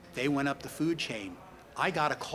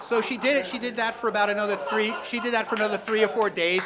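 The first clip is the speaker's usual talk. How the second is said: laughing through words; 7 semitones higher, 6 dB louder than usual. Real, not acted. Still laughing after punchline.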